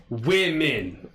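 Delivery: Women drawn out as "WIM-min", falling; Women as WIM-min, like a patient teacher; teaching pronunciation. Shown as a demonstration. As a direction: model Women slowly with a short "i". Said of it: "You actually pronounce this differently".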